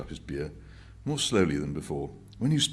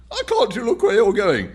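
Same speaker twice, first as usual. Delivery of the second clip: much louder, higher snapping rebuke; angry gent; 14 dB louder than usual. Retold or imitated. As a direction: snap at the clumsy old man. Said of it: "He says".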